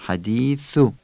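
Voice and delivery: حدیثو with the tongue between the teeth on ث; interdental tha. Shown as a demonstration. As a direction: say ث in حدیثو as a lisped "th". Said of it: "زبانمونو بین دندونا قرار بدیم".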